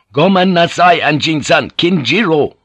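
high, loud samurai refusal; forceful interruption. Acted.

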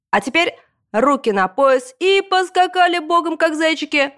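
high, drawn-out PE teacher bellow; scary yelling. A narrator's reading. Gym teacher ordering the class to jump, yelling in a scary voice. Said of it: "орать страшным голосом".

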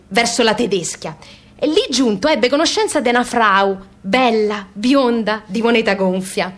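a mock-formal letter read in broken, pompous Italian; mock-solemn reading of a clumsy emigrant letter, softening at the farewell. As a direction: read it like proud emigrants writing home, grandly. Reads emigrants' letter aloud.

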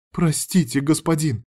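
begging forgiveness in pain; pleading. Acted. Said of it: "взмолилась та". (умоляюще, чуть выше)

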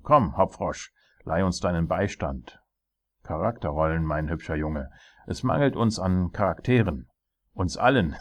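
hearty, commanding royal voice; jovial tyrant king. Acted. King asking his jester for help, jovial. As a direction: call on the jester with royal bluster.

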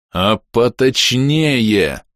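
very slow pressed demand; mild mock growl at the ghost. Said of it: "рыкнул я".

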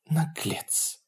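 hushed, grown-woman whisper; whispered rebuke. A narrator's reading. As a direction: whisper it softly with womanly authority. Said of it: "прошептала Попея, вдруг переставшим быть детским голосом".

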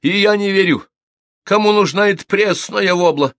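high, loud scornful outburst; as if stung. A narrator's reading. Sharp-tongued gossip leaps up to deny it, stung. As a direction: jump in with contempt. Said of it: "Словно подхлёстнутая вскочила Милка".

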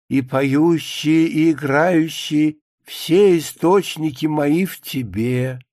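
slow, drawn-out scripture recital; measured churchly recitation; solemn psalm quotation. Acted. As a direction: recite it like holy writ, lingering on the words. Psalm quoted in a monologue.

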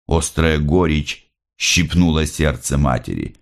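plain reading voice

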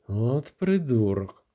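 Irma's slow angry snarl; through gritted teeth. A narrator's reading. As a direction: grind the word out in contempt. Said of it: "процідила крізь зуби Ірма".

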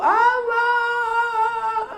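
high, drawn-out imitation wail; mock graveside wailing. Preacher mimicking a wife crying at the grave, mock wailing. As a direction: wail it out like a hammed-up widow. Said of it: "engkau kan yang menangis".

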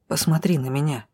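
low, even instruction; calm, clear-cut. A narrator's reading. Drow asks the heroine to look, calmly. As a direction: tell them calmly, evenly. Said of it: "всё так же чеканно спокойно".

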